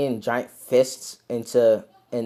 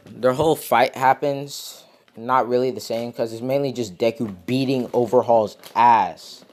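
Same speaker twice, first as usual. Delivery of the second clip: crunching chips. Real, not acted. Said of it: "Sorry, I'm eating chips right now".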